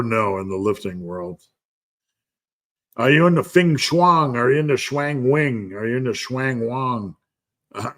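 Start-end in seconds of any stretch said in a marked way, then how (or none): 3.0-7.2 "Feng Shuang", "Shuang Wing", "Shuang Wang" drawn into sing-song nonsense; playful garbling. Pretend. Garbling feng shui as a joke.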